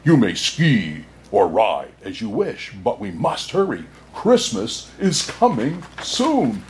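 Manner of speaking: a lightly voiced, gentle bear, the last words slowed; calm the girl like a kindly old bear; deep soothing bear. Bear urging the girl north, mildly soothing. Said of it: "he said in a deep, soothing voice".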